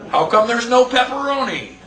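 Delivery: mock amazement. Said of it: "It's like".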